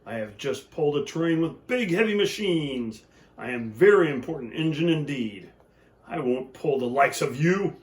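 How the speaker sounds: loud proud boast; a touch of booming pride; big engine bellowing. Acted. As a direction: puff up and brush them off.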